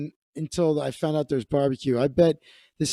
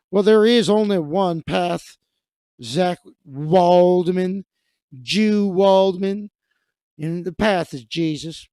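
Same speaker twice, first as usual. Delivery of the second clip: preachy ultimatum; 4 dB louder than usual. Retold or imitated. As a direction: drag out the name like a sermon. Dave voiced preaching at caller.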